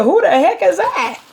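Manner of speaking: imitating not knowing her own face; shocked surprise. Bride seeing herself in the mirror, mock shock. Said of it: "I almost, I said".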